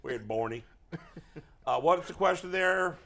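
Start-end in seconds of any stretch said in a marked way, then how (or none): 0.0-0.6 lightly voiced old baseball manager; a loose impression of a rambling old manager; hint of a put-on coach voice; Terry Francona. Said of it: "trying to do an impression of him".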